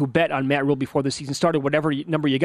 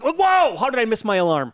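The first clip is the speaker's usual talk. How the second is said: high startled whoa, then a higher panicked question; 7 semitones higher than usual. Retold or imitated. Host recalls waking at three o'clock, mock startled. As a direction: retell the jolt of waking up to a missed alarm.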